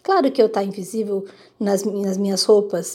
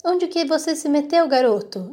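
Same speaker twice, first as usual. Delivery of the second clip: put-on higher, a father calling out for the boy; understated shout searching the room; father hunting for his invisible son, mild mock yell; 5 semitones higher than usual. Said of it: "E aí ele começa a gritar".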